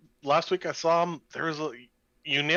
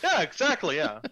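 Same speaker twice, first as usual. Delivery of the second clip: laughing; 5 semitones higher than usual. Real, not acted. Laugh heard.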